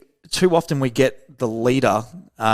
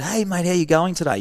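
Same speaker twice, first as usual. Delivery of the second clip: higher, upbeat and breezy, a careless hello; breezy cheery greeting; 6 semitones higher than usual. Shown as a demonstration. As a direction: toss it off like a chirpy passing hello, pitched higher. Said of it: "Tonality is absolutely everything".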